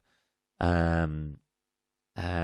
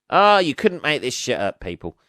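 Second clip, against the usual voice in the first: loud, higher exclamation, getting carried away; 4 semitones higher, 4 dB louder than usual. Real, not acted. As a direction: blurt it out, swept up in the outrage. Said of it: "I got a bit carried away there".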